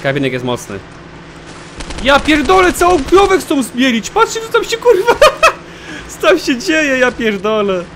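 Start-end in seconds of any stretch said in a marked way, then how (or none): 2.0-5.1 very high, loud incredulous outburst; loud disbelief. Real, not acted. Stunned by cow going into grinder. 5.6-7.8 high squealing laugh spilling into words; laughing in disbelief. Real, not acted. Breaks up laughing at the absurdity.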